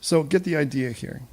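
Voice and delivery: ordinary talk, nothing marked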